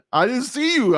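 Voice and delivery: a hint of a whiny sister excusing herself; sister's excuse. Mimicking his sister after she rear-ended him, high and whiny.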